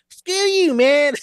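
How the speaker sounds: very high, loud squeaky puppet voice; mock a protest in a high puppet voice; Kermit voice. Caller doing a Kermit-mouthed heckler, high puppet voice. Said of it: "someone with a Kermit mouth".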